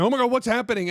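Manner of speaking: high-pitched imitation of alarmed passengers; freaking out. Passengers reacting around the caller, acted freak-out. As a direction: blurt it high, in mock panic. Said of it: "as people are freaking out".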